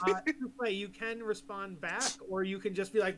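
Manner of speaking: ordinary talk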